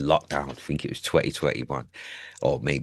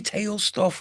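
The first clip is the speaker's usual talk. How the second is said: dreamy high voice. Pretend. Daydreaming about fairy tale holidays.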